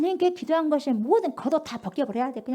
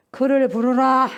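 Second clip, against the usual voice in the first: commanding Jesus; 7 dB louder, slower than usual. Acted. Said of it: "머물러 서서".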